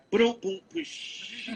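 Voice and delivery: vocal booms and crash; spoken explosion effects, trailing away; imitated crash noises. Imitates crashes after Mad Max.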